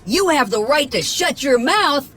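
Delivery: high, sneering witch voice; nasty witch. Acted. A witch snapping at handcuffed Shrek, high and nasty. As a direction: spit it back with contempt. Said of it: "a witch said nastily".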